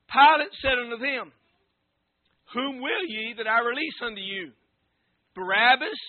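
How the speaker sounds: measured Bible reading, phrase by phrase; solemn scripture reading. Real, not acted. Preacher reading Matthew to standing congregation, solemn scripture reading. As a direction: read the verses out formally, pausing between phrases.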